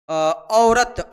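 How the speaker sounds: औरत stretched out very slowly, each sound drawn long; teacher spells out औरत at a crawl for the class; slow demo. Shown as a demonstration. Teacher showing students the word, said very slowly. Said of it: "देखिएगा यहाँ पे औरत".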